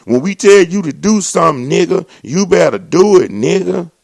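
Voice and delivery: a bossy officer's command, lightly hammed up; mock bossy police. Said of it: "You know what they really was saying".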